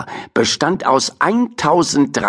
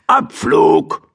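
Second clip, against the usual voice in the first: 1 command; 6 semitones higher than usual. Acted. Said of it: "kommandierte Mortimer".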